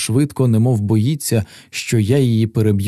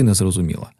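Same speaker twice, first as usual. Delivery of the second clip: usual speaking voice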